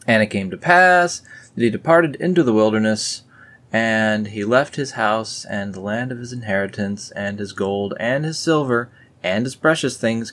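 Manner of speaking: scripture reading. Acted. Reading the departure verse to viewers, solemn. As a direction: proclaim the verse.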